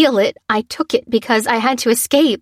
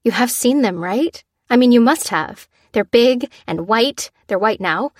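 anxious ramble; 3 semitones higher, 4 dB louder than usual. Acted.

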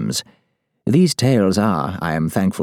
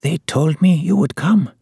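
put-on high, frail old woman; grieving old woman's high, thin voice; cracked old woman's voice; 9 semitones higher than usual. A narrator's reading. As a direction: speak high and cracked, worn out from crying. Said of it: "her voice a cracked whisper".

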